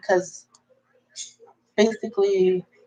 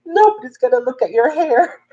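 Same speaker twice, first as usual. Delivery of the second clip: exasperated; 9 semitones higher than usual. Retold or imitated. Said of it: "And I'm like".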